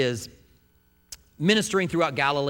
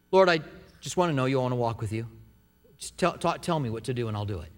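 soft, low plea to God; sincere prayer; 6 semitones lower, 3 dB quieter, faster than usual. Acted. Believer offering to walk with the Lord, softly sincere. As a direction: pray it simply, voice lowered.

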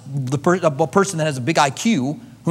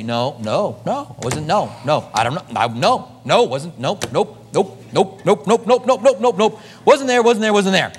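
flustered denial; 2 semitones higher than usual. Retold or imitated. Preacher voicing Job answering God, flustered. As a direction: babble denials like a cornered man.

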